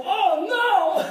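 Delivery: sheepish mock alarm at winning again; laughing mock dismay. Stands up at third win.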